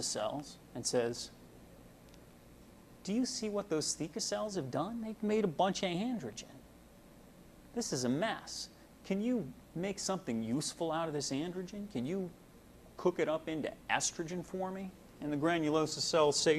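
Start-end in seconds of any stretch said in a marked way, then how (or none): 3.0-14.9 fussy hormone voice. Acted. FSH pleading with granulosa cells.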